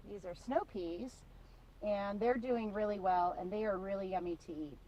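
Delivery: talking with a mouthful; chewing while talking; mouth full. Real, not acted. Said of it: "Sorry, I had a snow pea in my mouth".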